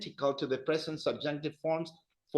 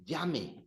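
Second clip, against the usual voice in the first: llame with weight on the first syllable; stress on second-last syllable; 5 dB quieter than usual. Shown as a demonstration. Teacher repeats the subjunctive for class, llame stressed early. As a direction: stress the start of llame, let the end drop. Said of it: "The emphasis is on the second last syllable".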